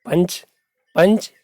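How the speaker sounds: पंच with a short vowel and a clear n before च; short पंच, the nasal closed off as n; nasal consonant. Shown as a demonstration. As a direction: sound the n in पंच through the nose only. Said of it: "पंच में केवल नाक से".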